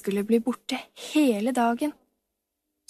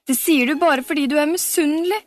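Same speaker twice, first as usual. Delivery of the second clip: sniffling; 5 semitones higher, 5 dB louder, faster than usual. A narrator's reading. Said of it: "snufset Camilla".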